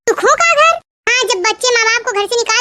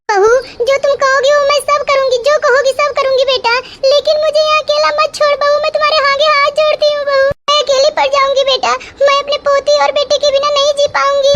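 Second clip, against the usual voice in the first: mild tearful pleading, pitch a bit raised; tearful begging; 3 semitones higher than usual. Acted. Grandmother begs daughter-in-law not to abandon her, tearful. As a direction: beg her not to leave you here, close to tears. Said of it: "तो दादी रो क्यों रही हैं?".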